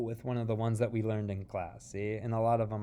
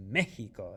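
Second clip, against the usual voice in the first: "Mexico" with a firm stress on the first syllable, MEH-hee-ko; give it drive; 3 dB louder than usual. Shown as a demonstration. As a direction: punch the start of "Mexico". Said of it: "give it that drive".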